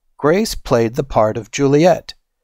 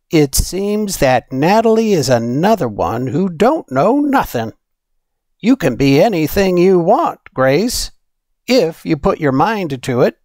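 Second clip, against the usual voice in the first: a hint of a firm, loving granny, higher; lightly voiced grandmother; 6 semitones higher than usual. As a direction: reassure your granddaughter with conviction. Nana voiced, Trinidad granny.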